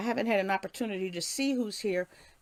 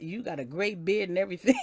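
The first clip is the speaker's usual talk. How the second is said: teary laugh; 2 semitones lower, faster than usual. Real, not acted. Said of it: "You gonna make me cry".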